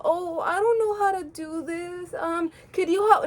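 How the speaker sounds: mock-helpless little plea; shy. Imitating someone asking a crush for help, shy. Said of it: "the shy little".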